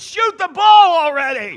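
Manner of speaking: loud, high impatient shout; kid's shout. Retold or imitated. Kid in the crowd shouting at the pastor to shoot. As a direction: yell it slowly and impatiently. Kid yelling in retold story.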